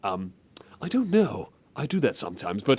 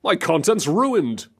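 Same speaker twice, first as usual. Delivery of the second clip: mock skit line; 5 semitones higher, slower than usual. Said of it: "Steamed Hams parody skit".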